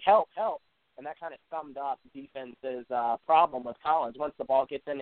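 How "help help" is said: mild mock yell, pitched up; imitated yell. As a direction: imitate a player's call for help, higher but only slightly louder. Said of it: "somebody yelling".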